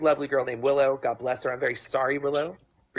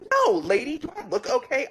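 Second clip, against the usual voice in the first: mock exasperation; 10 semitones higher than usual. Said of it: "And I was like".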